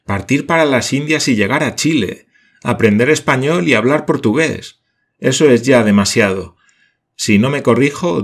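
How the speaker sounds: loud, high, mock despair; comic lament. A narrator's reading. Paganel lamenting to his laughing comrades, comic despair. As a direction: ham up the outburst. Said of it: "cómicos ademanes".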